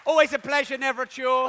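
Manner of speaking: high, loud showman flourish; cheesy showman. Pretend. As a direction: sell it like a game show host. Cheesy sign-off.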